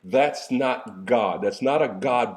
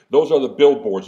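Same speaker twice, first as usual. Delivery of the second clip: "are" hit loud and falling in "those are the billboards"; emphatic preaching; 7 dB louder than usual. Real, not acted. Preacher to the congregation, punching "are" loudly. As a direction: punch "are" hard to the crowd. Preacher driving home his point.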